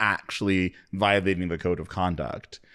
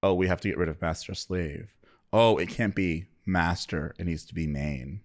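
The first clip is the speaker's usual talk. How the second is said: mock performative; 3 semitones lower, 5 dB quieter than usual. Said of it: "everybody ran around and was like".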